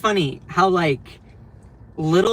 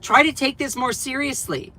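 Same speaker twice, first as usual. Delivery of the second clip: high, sing-song mockery; mock her prissy scolding; mocking Perino; 7 semitones higher than usual. Streamer mocking the Fox host, high and sarcastic. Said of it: "you say".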